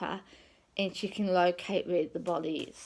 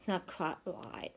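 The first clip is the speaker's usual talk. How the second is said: hushed, breathy whisper; soft secret whisper; 6 dB quieter than usual. Retold or imitated. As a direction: whisper it like a private suspicion. Inner thought about Joe.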